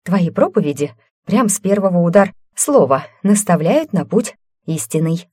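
teasing, sarcastic praise; mock the preacher, out of breath. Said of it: "неисправимой язвой".

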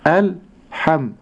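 الحم with a thin light حاء, very slow. Shown as a demonstration. Sheikh modelling the thin ha, slowly. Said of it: "أرقق الحاء".

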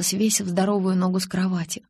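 usual speaking voice

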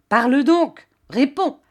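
barked, high and loud; furious baron forcing an answer; angry command. Acted. Baron shouting at the kneeling maid, angry. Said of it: "que la colère gagnait".

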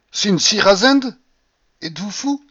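high, slow, loud opening challenge; outraged exclamation. A narrator's reading. Baron brandishing his cane at his provoker, crying out outraged. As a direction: cry out in indignant disbelief. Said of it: "s'écria-t-il en brandissant sa canne".

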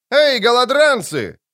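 ringing roar. A narrator's reading. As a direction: roar it at the ragged crowd from horseback. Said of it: "звонко рыкнул один из рыцарей". (звонкий рык, громко и протяжно)

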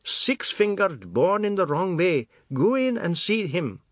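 high, loud spiteful taunt; taunting old woman. A narrator's reading. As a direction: taunt him with a curse. Grandmother taunts the father.

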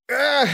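a high, sharp gasp of pain; sobbing gasp. Acted. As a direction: gasp as you sink down. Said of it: "всхлипнул Корж". (высокий всхлип)

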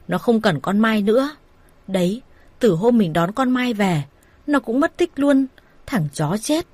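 raging at the man who used her daughter; fuming mother, voice climbing; angry rant. Acted. Mother rants about Thanh.

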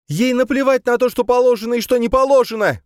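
very high, loud outcry; distraught shout. A narrator's reading. Camille defying the gendarme about Suzanne, distraught shout. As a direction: cry out against the rules at full pitch. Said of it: "выкрикнула Камила".

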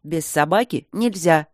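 curt. Acted. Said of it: "отрезал Женька".

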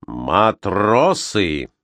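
very slow, deliberate address, each syllable distinct; loud and distinct. Acted. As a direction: call the crew to attention, slow and clear. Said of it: "сказал он громким, отчётливым голосом".

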